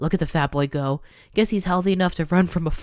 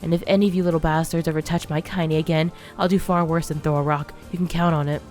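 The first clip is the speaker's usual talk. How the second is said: put-on louder, hard threatening old woman; thick with rage; 4 dB louder than usual. Grandmother threatening the bullies with rage. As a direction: warn the kids off with menace. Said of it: "voice thick with rage".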